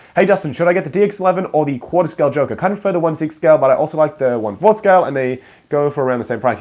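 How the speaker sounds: usual speaking voice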